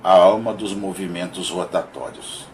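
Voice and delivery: measured, declaimed verse with pauses between lines; poem recitation. Acted. Reading Augusto dos Anjos's monologue of a shadow to listeners, poem recitation. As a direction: recite it line by line, emphatic openings falling away.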